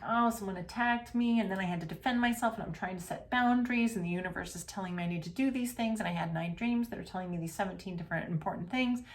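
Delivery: rushed, breathless mock drama, speeding up; mock rambling story. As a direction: parody someone spinning a big story. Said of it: "Those are great stories".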